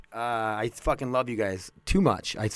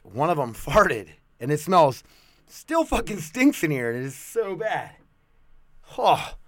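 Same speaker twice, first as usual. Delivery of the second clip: disgusted; 4 semitones higher than usual. Real, not acted. Dog fart smell disgust.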